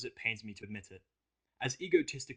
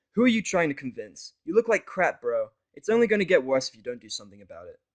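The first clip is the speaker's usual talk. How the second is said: higher, louder blunt mare; Vinyl pointing out; 3 semitones higher, 11 dB louder than usual. Acted. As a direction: call out his denial. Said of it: "Vinyl points out".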